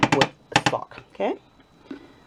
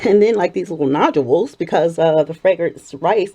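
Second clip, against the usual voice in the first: shaky vibrating voice. Real, not acted. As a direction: voice wobbling from shaking. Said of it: "my voice is vibrating 'cause I'm shaking this bowl".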